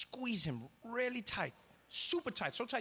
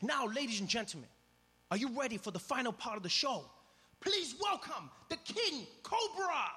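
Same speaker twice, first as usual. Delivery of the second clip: grand announcer; 7 semitones higher than usual. Retold or imitated. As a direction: build the suspense for the final act. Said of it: "came out one final time".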